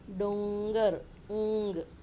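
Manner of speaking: डोंगर loud with a long ng, then ऊंग alone; ng sound shown. Shown as a demonstration. Teacher showing children the pronunciation, डोंगर firmly broken down to ऊंग. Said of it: "ऐसा आया, है ना".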